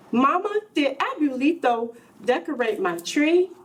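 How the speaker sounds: a hint of a hopeful little boy; eager child question. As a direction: ask mama brightly, like a small boy. Child asks mother eagerly.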